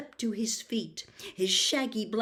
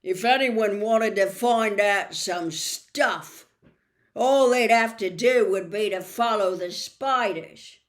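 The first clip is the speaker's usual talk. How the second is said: carefully; 9 dB louder than usual. Acted. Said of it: "and said carefully".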